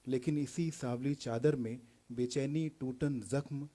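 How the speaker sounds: declaimed verse, openings lifted and endings sinking; poetry recital. Acted. Poet asking who has seen love closest, poetry recital. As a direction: recite it phrase by phrase, building on repeated lines.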